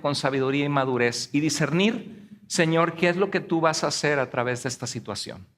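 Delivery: modeled prayer. Shown as a demonstration. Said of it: "lo que hay que hacer es decir".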